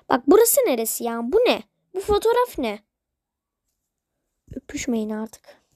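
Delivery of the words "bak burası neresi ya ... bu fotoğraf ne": shocked. Real, not acted. Outraged at a photo she finds.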